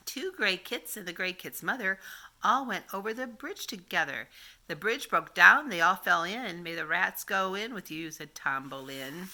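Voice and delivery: put-on sing-song read-aloud for little kids; reading nursery rhymes. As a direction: read it like grandma at story time. Reads rhyme to children.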